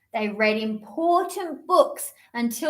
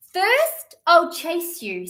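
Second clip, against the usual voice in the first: kitten voice; 5 semitones higher, slower than usual. Acted. Kitten threatens bird.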